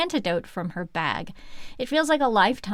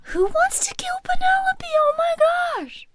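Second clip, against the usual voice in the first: very high, squealing disbelief; hammed-up scandalised outcry; mock shock; 4 dB louder than usual. Co-host reacting to the attempt on Penelope, mock shock.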